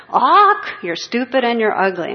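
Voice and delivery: high, loud squawk of a rude parrot. Retold or imitated. Parrot squawks insults at a passing woman, shrill and loud. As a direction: screech it like a mocking parrot. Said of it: "Parrot's there".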